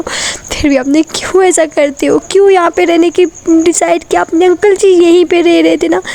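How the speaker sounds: a hint of crying, voice pushed up; tearful complaint. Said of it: "वो रोने लग जाती है". (नाराज़ प्रेमिका, रुआंसी शिकायत)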